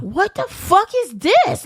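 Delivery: high, drawn-out mock outrage; indignant impression, stretching the words; retold pissed off. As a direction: imitate an angry landlord, slow and high. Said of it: "he was pissed".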